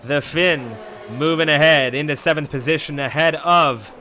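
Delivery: loud, driving race commentary; half yelling. Real, not acted. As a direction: call the overtake at a half-yell. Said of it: "kinda half yelling".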